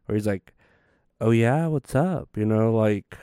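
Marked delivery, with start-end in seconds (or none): 1.2-2.3 lightly imitated gay-man voice; Uncle Eddie's gay voice. Imitating an uncle's manner of talking, lightly put-on gay voice. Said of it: "my Uncle Eddie has that gay voice".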